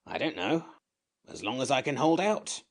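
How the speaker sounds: a cross little sand fairy; grumpy creature. A narrator's reading. Samiad voiced.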